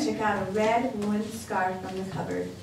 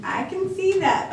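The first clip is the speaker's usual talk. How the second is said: chuckling; 10 semitones higher, 4 dB louder than usual. A narrator's reading. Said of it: "Baba Brana chuckled".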